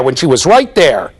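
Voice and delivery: ordinary delivery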